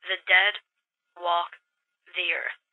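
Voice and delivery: mock-spooky low slow words; lightly hammed ghost-story hush; ominous. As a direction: play it like a horror trailer. Mark delivers spooky news dramatically.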